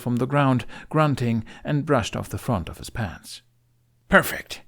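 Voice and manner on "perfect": pleased. A narrator's reading. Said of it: "he said".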